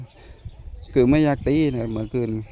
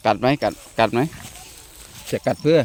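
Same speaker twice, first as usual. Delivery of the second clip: scolding; 3 dB louder than usual. Real, not acted. Scolding dog for chewing.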